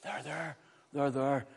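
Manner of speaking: gentle, placating pat on the head; mock soothing. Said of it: "it's always, "They're there".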